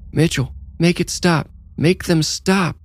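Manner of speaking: high, desperate terrified scream; screaming in terror. Acted. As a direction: beg in panic, voice pitched high. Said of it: "Pia screamed".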